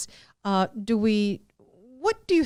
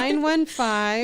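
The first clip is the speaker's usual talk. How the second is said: slow, deliberate digits, slightly raised; slow, clear repeat; 4 semitones higher, 3 dB louder, slower than usual. Shown as a demonstration. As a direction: spell it out for listeners, unhurried. Repeating number said too fast.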